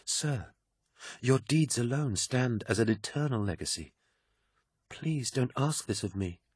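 high, soft, near tears; tearful pleading. A narrator's reading. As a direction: beg him not to ask. She begs him.

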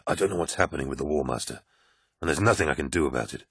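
put-on young legionary confessing his worry; troubled Loken. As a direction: blurt out his helplessness. Narrator voices Loken.

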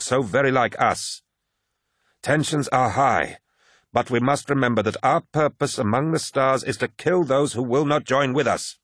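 earnest leader making a speech; commanding lodge leader. Acted. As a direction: address the assembled warriors with gravity. Voices Targost addressing warriors.

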